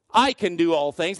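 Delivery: "I" pushed forward with a rise; stress on I. Shown as a demonstration. Pastor showing the congregation the wrong emphasis, stressing "I". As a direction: hit the word "I" in "I can do all things". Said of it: "if you put the emphasis on I".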